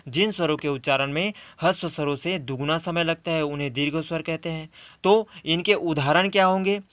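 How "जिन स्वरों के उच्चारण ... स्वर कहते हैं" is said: definition rattled off quickly and quieter; brisk dictation-style repeat; fast, softer recap. Shown as a demonstration. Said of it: "तो हमारा दूसरा आता है".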